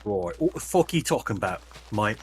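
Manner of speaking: a loose jokey London geezer voice; mock Cockney accent. Mocking the British accent to friends, in jokey Cockney. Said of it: "They don't even say mate like that".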